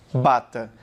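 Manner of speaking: "Bata" with the lips closed then released; bilabial B demo. Shown as a demonstration. Teacher showing lip closure, careful "Bata". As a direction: pop the B of "Bata" gently. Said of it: "Você vai encostar os dois lábios e vai soltar".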